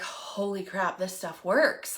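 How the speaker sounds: low, soft amazement; hushed realization. Retold or imitated. Speaker recalls realizing the ketones work, hushed amazement. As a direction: let it sink in under your breath.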